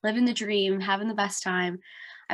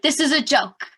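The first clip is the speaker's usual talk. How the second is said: raised, louder retold outburst of disbelief; exasperated disbelief; 5 semitones higher, 5 dB louder than usual. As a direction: replay the moment you refused to believe it. Retelling her positive test reaction.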